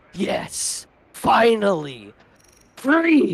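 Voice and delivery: big, grand declaiming voice, as from on high. Describing a giant spaceship to two listeners, voice its call in a deafening booming voice. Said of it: "in a deafening, uh, booming voice".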